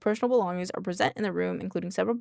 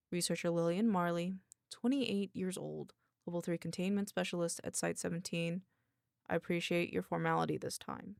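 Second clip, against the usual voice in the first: softer, slightly deepened character voice; deep woman's voice; 6 dB quieter than usual. Acted. Researcher gives name and post to interviewer, slightly deepened voice. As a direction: answer formally, a touch darker. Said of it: "give her a deep voice".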